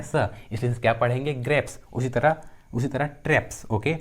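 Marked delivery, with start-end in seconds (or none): 1.3-1.8 "ग्रेप्स" with a final s, not z; s sound ending. Shown as a demonstration. Teacher showing the rule for final S, "ग्रेप्स" ending in s. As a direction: end "ग्रेप्स" on a voiceless s. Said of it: "तो एस का उच्चारण क्या होता है".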